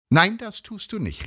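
high-pitched urgent protest; agitated, high exclamation; crying out. A narrator's reading. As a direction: object sharply, voice shooting up. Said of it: "rief sie".

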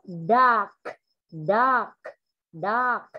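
DARK with an audible released K; clear final sound. Shown as a demonstration. Teacher gives example of endings, DARK with released final K. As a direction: pop the K at the end of DARK. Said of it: "đọc âm đuôi rất chuẩn".

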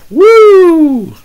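whoop, then stretch "slain" in fake glee; mock excitement. Preacher parodying excitement about Jesus being slain, mock excitement. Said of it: "Getting excited about killing Jesus".

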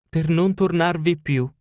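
high, mocking old woman's voice; old housekeeper. Old housekeeper telling Holmes her mistress fled, high and mocking. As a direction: deliver the bad news with relish.

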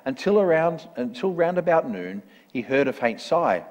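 measured, rhythmic storybook reading; story narration. A narrator's reading. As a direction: read it out like a rhyming picture book. Reads a rhyming story.

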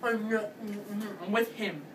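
very slow, drawn-out imitation; slow sneering impression of the girl; mocking her. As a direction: drag out her words mockingly. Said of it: "was like".

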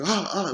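imitated waking gasp of fright; terrified gasps. Waking from the nightmare still in terror, imitated frightened gasps. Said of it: "I still felt the same terror".

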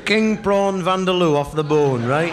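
put-on drunk bloke demanding hot curry. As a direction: insist on the vindaloo like a drunk. Drunk orders curry in cafe.

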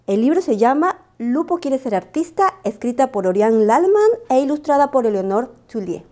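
put-on high, sing-song host greeting kids; bright squeaky sing-song welcome. Storyteller welcomes children.

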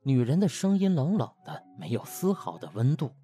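ordinary delivery

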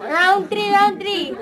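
loud, high laughing call. Real, not acted. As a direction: laugh it out with a full mouth. Laughing through full mouth.

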